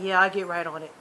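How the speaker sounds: low, listless agreement; imitating a half-hearted yes; unenthusiastic. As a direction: agree with zero interest, pitch dropped. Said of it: "Just all unenthusiasm".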